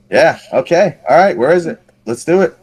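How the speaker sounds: high-pitched retold go-along; acted nervous agreement. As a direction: talk yourself into it, voice climbing. Acting out agreeing to the run.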